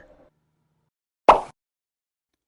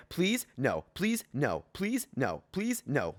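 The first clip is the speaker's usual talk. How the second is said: soft rapid pleading exchange; 4 semitones lower, 6 dB quieter, much slower than usual. Acted. Begging back and forth.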